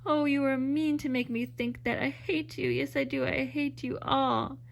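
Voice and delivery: rising into a hurt, tearful accusation; hysterical. Acted. Madge lashing out at Lucy and the crowd, mildly hysterical. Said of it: "her voice rose hysterically".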